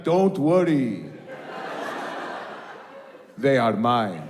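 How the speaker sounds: slow, menacing villain drawl; slow theatrical villain menace. Retold or imitated. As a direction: menace them like a movie villain. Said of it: "really deep Middle Eastern villain voice".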